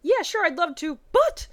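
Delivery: rising to an indignant squeal; excited Misty. Acted. Misty scolding Ash for not phoning, excited.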